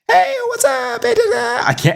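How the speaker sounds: put-on very high squeaky girl voice; cutesy VTuber voice. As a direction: pitch way up like an anime girl. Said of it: "if I talk like that".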